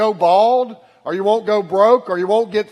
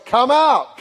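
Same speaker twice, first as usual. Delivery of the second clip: mildly raised, higher summons; raised-voice call; 5 semitones higher, 3 dB louder than usual. Retold or imitated. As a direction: call out to them, not quite shouting. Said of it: "in a loud voice".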